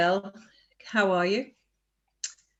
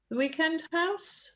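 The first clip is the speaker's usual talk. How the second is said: higher, rising disbelieving echo; surprised echo question; 10 semitones higher, 4 dB quieter than usual. Acted. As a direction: repeat it back, surprised. Echoed question in translation.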